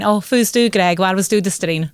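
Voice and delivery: a touch of Shetland dialect, "Where was du the strain?" as a local would say it. Shown as a demonstration. Guest showing the hosts a Shetland greeting, lightly lilting dialect. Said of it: "if that was me up in Shetland, I would be saying".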